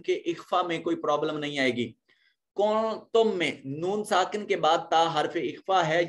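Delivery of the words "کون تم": "کون تم" with the n held as a nasal hum before the t; hidden noon. Shown as a demonstration. Teacher showing ikhfa before taa, "کون تم" with hidden nasal n. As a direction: hide the n of "کون تم" in a lengthened hum. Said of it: "نون کو اپنے مخرج میں چھپا کر پڑھیں گے".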